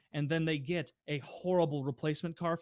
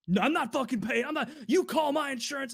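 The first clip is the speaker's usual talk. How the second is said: mock angry refusal; 10 semitones higher, 4 dB louder than usual. Customer refuses to pay.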